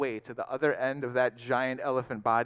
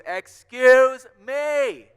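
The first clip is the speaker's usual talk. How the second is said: high, very loud urgent holler; full-force little mouse yell, key words stretched; shouting with all his voice; 8 semitones higher, 11 dB louder than usual. A narrator's reading. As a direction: shout right into a giant ear. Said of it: "he shouted with all of his voice".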